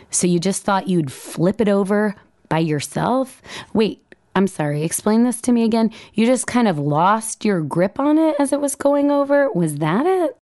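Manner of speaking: rising, needling shrill-edged blame; a touch of a scolding harpy wife; shrieking harpy. Retold or imitated. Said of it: "put the harp back in Shrieking Harpy".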